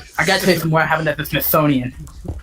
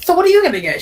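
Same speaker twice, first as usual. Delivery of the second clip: mock high voice; 12 semitones higher, much faster than usual. Mocking voice in date story.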